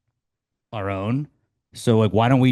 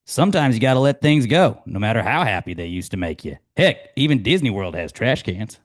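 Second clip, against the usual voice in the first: upbeat coachy quote delivery, louder start; Ted Lasso quote; 4 dB louder than usual. Acted. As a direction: sell it like a folksy coach.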